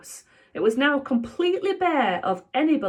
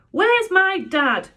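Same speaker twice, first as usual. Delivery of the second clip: high, loud, slow demand; 11 semitones higher, 7 dB louder, slower than usual. Acted. Boy demanding to know where his dad is, loud and high. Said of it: "demanded Joe".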